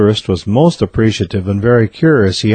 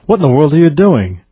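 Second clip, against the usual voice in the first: higher, baffled question; puzzled; 5 semitones higher than usual. A narrator's reading. Second biologist questioning his partner up the tree, puzzled. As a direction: ask it in mild bewilderment. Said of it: "gives him a puzzled look and says".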